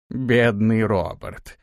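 slow mocking old man; drawn-out sneer at the dead. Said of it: "насмешливо произнёс старик".

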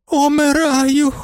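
very high, slow, strained moan. A narrator's reading. Baroness moans theatrically to the hall that she is dying. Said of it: "стогне баронеса".

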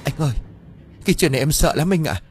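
high, fearful plaintive voice; acted tearful plea, pitched high; sobbing wife. A narrator's reading. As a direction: voice a distraught wife appealing to her husband. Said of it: "nức nở nói với chồng".

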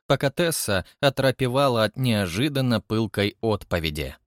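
ordinary delivery, nothing marked

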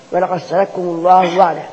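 صدقكم said sadakkum, with doubled kaf; qaf becomes kaf. Shown as a demonstration. Teacher repeating the assimilated verse, صدقكم as sadakkum. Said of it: "تبقى كاف على طول".

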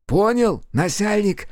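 high, mocking soldier's answer; cheeky high-pitched yes-sir; clowning reply. A narrator's reading. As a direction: pipe it up like a clown making faces. Скорчил смешную рожицу.

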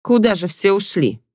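puzzled, rising question; wondering aloud. Acted. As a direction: ask it bewildered. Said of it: "удивлялась Белла".

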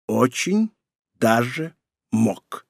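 slow, separated words with pauses. A narrator's reading. Emperor contradicting his son, word by word. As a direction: set each word apart deliberately. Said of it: "произнёс император раздельно".

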